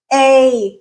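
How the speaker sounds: long A as in bait; A vowel demo. Shown as a demonstration. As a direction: draw out A as a model vowel. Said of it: "talk about the".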